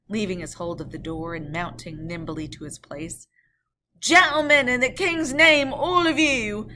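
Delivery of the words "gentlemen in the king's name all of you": loud, higher urgent call; hurried adjuration. Acted. Guard calling passengers to arms, loud urgent. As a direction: rouse them in the king's name. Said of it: "With this hurried adjuration".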